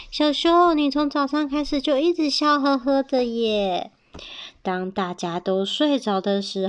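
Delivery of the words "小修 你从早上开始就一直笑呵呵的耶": high, singled-out calling of the name; a hint of a little character voice; lightly voiced mouse. Friends to bear at dinner, high teasing remark.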